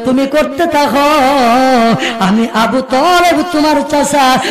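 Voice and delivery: melodic sermon delivery with held line endings; impassioned waz preaching. Acted. Uncle pledging support to his nephew, in melodic preaching chant.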